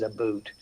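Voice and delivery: Canadian "about" said as "boot"; long oo in "boot", imitating a Canadian; Paul Hellyer. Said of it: "I also heard Paul Hellyer saying".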